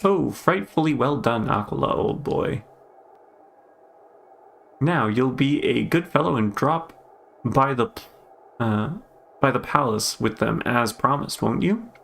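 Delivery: mock posh English accent; a lightly put-on posh old-boy voice. Majesty praising Aquila for the figs, lightly posh accent. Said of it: "what was that weird posh voice".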